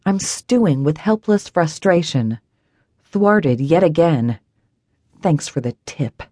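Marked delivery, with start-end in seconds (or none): 5.2-6.2 bitter mocking echo. Narrator bitterly mimics boss's thanks. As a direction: repeat his words low and sour. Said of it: "Like it was a freaking tip".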